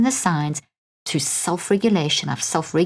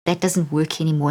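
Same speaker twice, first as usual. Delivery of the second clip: kind; 2 semitones lower than usual. Shown as a demonstration. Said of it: "very kindly say".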